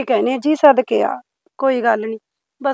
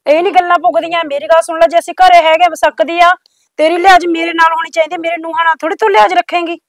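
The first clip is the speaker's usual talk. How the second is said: loud, accusing questions; mother-in-law accusing the neighbour, loud and angry; angry confronting; 2 semitones higher, 5 dB louder than usual. Acted. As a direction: demand answers, voice raised. Mother-in-law lays down rules.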